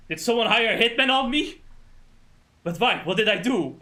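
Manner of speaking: imitated panicky questions; mock paranoid alarm. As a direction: act out a worried man suspecting a plot. Acting out character's paranoid worry.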